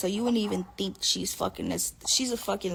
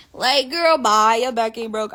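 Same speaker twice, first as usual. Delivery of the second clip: exasperated retort; 6 dB louder than usual. Retold or imitated. Retorting to grandma's complaint.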